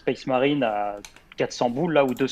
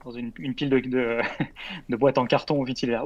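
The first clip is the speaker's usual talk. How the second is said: toy commercial. Acted. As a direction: kid in a toy ad, amazed. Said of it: "je me fais avoir comme dans une pub de jouets". (pub de jouets, enfant émerveillé)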